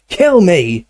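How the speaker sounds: high, loud cry of agony; anguished yell. A narrator's reading. Dumbledore in agony after drinking, high loud yell. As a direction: yell it out in torment. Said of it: "he yelled".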